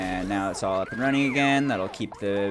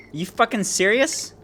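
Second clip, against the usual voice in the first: much higher, loud furious yelling; real rage at the wiring; angry shouting; 5 dB louder than usual. Real, not acted. Raging at bad wiring.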